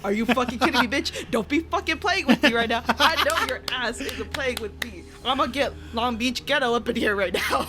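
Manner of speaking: imitating herself going off on the ghost; half-laughing mock fury; retold mock rage. Retold angry reply to the ghost.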